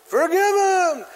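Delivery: high, drawn-out mock crowd cry; crowd's yell. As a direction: call out like a pleading audience. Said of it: "the crowd yells".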